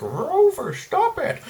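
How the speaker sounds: very high, squeaky mock yell at the dog; imitated dog owner yelling. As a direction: shriek at the dog like a frantic owner. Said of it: "and he's like".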